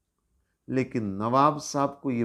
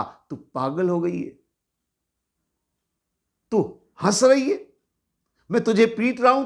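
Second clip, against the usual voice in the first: much higher, louder angry demands; furious nawab; 6 semitones higher, 4 dB louder, faster than usual. Acted. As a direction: yell at her in disbelief. Nawab furious she laughs. (गुस्से से चिल्लाते हुए)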